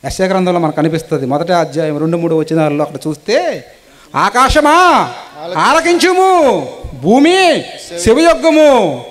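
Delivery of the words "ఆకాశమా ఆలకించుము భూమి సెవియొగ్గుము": slow, raised, solemn call to heaven and earth; declaiming God's call. Acted. Preacher voices God calling heaven and earth, raised and solemn. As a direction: proclaim it like God summoning the sky.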